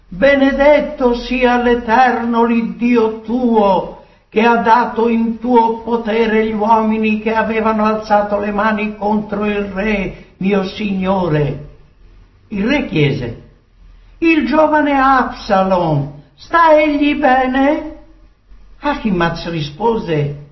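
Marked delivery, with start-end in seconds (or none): 0.1-11.7 raised, declaimed praise to the king; reverent messenger. Acted. Ahimaaz prostrate before the king, praising solemnly. 14.2-18.0 high-pitched, pressing question; anxious king. Acted. King questions the first messenger about Absalom, anxiously. King asks after his son.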